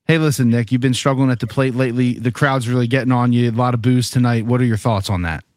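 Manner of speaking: tactful, considerate interviewer tone; polite reporter question. Shown as a demonstration. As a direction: ask it gently and professionally. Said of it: "the way you go about this is this".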